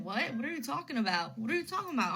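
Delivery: retold bewilderment, rising in pitch on the repeat; baffled questioning, mildly re-enacted; confused. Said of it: "I'm, like, so confused".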